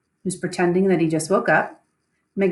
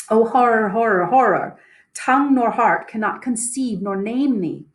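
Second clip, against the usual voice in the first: mild mock scream; 3 semitones higher than usual. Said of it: "comes running back into the room screaming".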